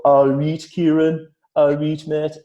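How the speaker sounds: loud, high Geordie hello, imitating friends; mock Geordie greeting. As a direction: do the friends' broad Geordie call, hammed up. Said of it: "they go".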